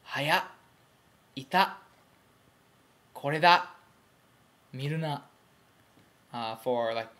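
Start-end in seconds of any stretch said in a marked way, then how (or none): 0.0-5.2 each word ending in a sharp glottal catch, a bit higher and louder; small tsu examples. Shown as a demonstration. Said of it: "examples ... are things like".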